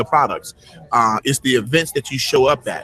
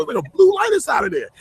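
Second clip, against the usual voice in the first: amazed; faster than usual. Real, not acted. Guest marvels at blue mic.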